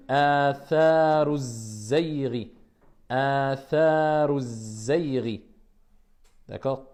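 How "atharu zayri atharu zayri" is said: Atharu zayri joined straight into zayri, with no glottal stop; liaison. Shown as a demonstration. Teacher models the liaison for the students, joined smoothly. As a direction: link atharu to zayri in one flow. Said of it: "La liaison".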